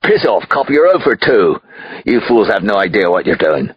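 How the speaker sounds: loud, high contemptuous brush-off; high outburst easing into scorn; dismissive anger. A narrator's reading. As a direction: sneer the cops away. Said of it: "He waved his cigar at us dismissively".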